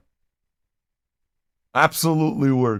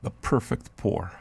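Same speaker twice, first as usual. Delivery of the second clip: ASMR hush; 5 semitones lower, 8 dB quieter than usual. Pretend. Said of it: "I'm gonna do the M S R for you".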